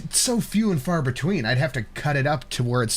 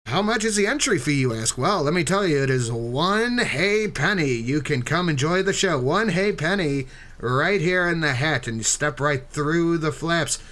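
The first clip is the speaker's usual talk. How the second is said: put-on old-timey carnival barker. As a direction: step right up barker pitch. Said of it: "Do it in old-timey voice".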